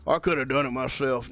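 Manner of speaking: a lightly voiced, sneering customer; mocking imitation. Mechanic mocking the customer who bragged, in a mild mock voice. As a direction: parrot the customer's boast back at him, mocking.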